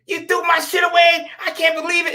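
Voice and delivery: retold outrage, pitched high; imitating angry father. Father calls at five A M about his thrown-out things, mock angry. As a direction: imitate an indignant dad, voice jumping up high. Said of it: "He was angry".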